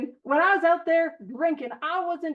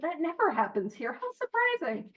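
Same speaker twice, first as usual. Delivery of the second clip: sarcastic; 3 semitones higher, 4 dB quieter than usual. Acted. Speaker ribbing the meeting about his own tangents, sarcastic. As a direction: tease yourself for wandering off topic.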